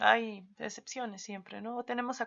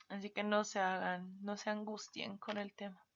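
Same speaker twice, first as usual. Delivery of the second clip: whisper; 8 dB quieter than usual. Real, not acted. Reassuring aside to students.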